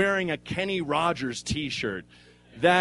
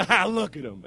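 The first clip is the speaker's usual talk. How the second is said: cooing at a dog; 3 semitones higher than usual. Retold or imitated. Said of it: "Like, I'm a dog".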